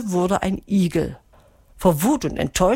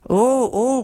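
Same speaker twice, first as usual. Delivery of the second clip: calling out; 6 semitones higher than usual. A narrator's reading. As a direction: cry out in startled warning. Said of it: "rief Melissa".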